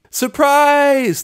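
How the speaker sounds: high loud shout of surprise; cheering surprise. A narrator's reading. Party ponies shouting at startled Rainbow, loud cheer. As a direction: burst out with a cheer. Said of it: "the ponies cheered in unison".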